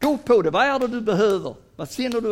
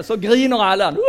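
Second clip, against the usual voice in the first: laughing as he says it; 7 semitones higher, 9 dB louder than usual. Real, not acted. Lecturer to Danish audience, laughing. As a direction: break into a laugh mid-line.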